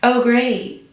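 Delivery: dry, put-on "great"; really dry. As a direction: mimic an unenthusiastic congratulation. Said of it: "really dry".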